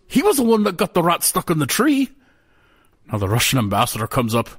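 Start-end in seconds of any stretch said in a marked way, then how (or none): 0.1-2.1 much higher, blaming jester; high fool voice. A narrator's reading. Jester Tom blaming the ambassador, high squeak. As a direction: point the finger in a high squeak.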